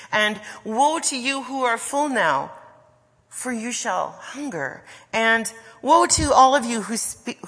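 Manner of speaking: forceful, ringing pronouncement of woe; voice of judgment. Acted. Jesus warning the rich and well-fed, voice of judgment. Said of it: "used God's voice of judgment".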